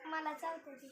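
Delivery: soft repeat. Real, not acted. Child repeats to mother that the cat bites, softly. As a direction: mumble it again under your breath.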